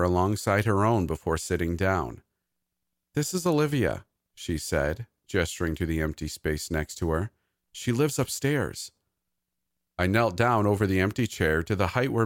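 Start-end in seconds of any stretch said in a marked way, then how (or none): 3.1-4.0 put-on high, proud small-child voice; little girl. A narrator's reading. Maisie introduces invisible Olivia to her uncle, high child voice. 7.7-8.9 put-on high, slow small-child voice; little girl. A narrator's reading. Maisie tells her uncle about Olivia, high child voice.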